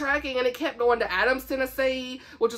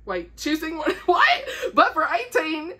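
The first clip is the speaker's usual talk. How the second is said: surprised; 6 semitones higher than usual. Real, not acted. Catching her own misreading aloud.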